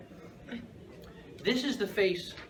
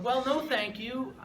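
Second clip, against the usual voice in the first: gentle no; 4 semitones higher than usual. Retold or imitated. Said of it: "So I tell him".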